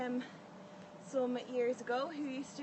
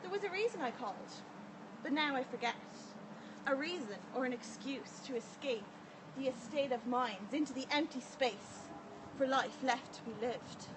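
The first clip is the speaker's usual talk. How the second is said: intense rhythmic poem performance; spoken word poetry. Acted. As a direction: build and drop like slam poetry. Poem recited at open mic.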